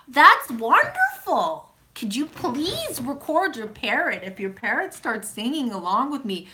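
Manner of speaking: high, drawn-out mock rapture; hammed-up gratitude, stretching the words; theatrical gushing. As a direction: plead slowly with swooping, over-the-top delight. Gushing over viewer's singing parrot.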